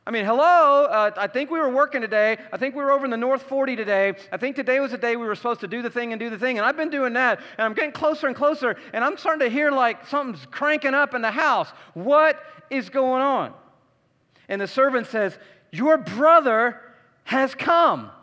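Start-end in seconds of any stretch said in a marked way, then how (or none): 0.0-13.5 higher, exasperated rant; the put-upon worker venting, higher; indignant older son. Retold or imitated. Older son complaining to the servant, higher and exasperated. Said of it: "can you hear the tone in his voice?". 15.7-18.1 higher, louder, eager news; excited servant. Retold or imitated. Servant telling the older son, excited and higher. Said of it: "the servant's excited".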